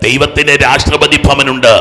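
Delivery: ordinary talk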